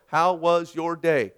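slow, stilted line-reading; scripted recital. Acted. Husband reading his script to his wife, stilted. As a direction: read it mechanically off a script, word by word. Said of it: "Honey, get your script. I'll get my script".

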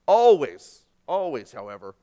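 first ALWAYS shouted out, then dropped low; emphatic always. Acted. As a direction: hammer the word Always, then pull back. Preacher stressing repeated word.

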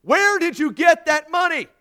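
judge shouting, very high and loud. A narrator's reading. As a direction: shout the question at a deaf man. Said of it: "The judge raised his voice".

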